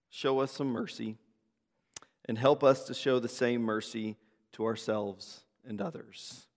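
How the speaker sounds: measured congregational prayer with pauses. Real, not acted. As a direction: pray earnestly, letting each petition settle. Leads a spoken prayer.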